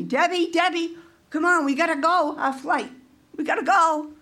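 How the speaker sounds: mildly pressing, hurrying someone along; urgent calling. Retold or imitated. Travel companion hurrying Debbie to catch their flight, urgent.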